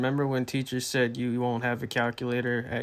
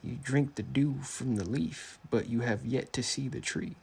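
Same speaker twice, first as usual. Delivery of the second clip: wise mentor voice; 2 semitones higher than usual. Acted. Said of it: "a very convincing imitation of a mentor character".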